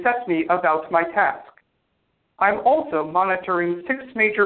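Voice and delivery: even, toneless AI robot voice. Acted. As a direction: speak like a calm machine. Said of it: "weird robot voice thing".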